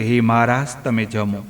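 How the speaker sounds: soft, humble plea to the Lord. Acted. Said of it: "વિનમ્ર અવાજે".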